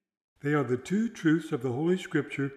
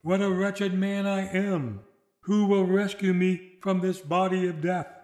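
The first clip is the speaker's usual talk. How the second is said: weeping cry; 4 semitones higher than usual. Retold or imitated. A weary Paul cries out in weeping lament. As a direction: cry out to God in anguish. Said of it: "and weeping, he cries out".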